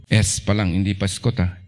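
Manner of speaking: usual speaking voice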